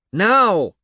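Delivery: loud, high booming order; thundering command. A narrator's reading. The magician thunders at the old man to strike. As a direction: thunder it like a sorcerer. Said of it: "the magician thundered".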